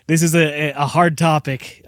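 laughing nervously through the words; uneasy little laugh while speaking. Real, not acted. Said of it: "That's, that's nervous laughter".

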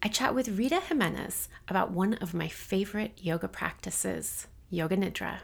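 even, measured bio read; scripted guest introduction. Acted. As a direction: read the guest's biography out carefully. Reads episode summary and guest bio.

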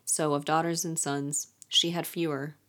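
calm, softening reading voice; poem reading. Acted. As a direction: read the riddle gently, like a poem. Reads riddle poem aloud.

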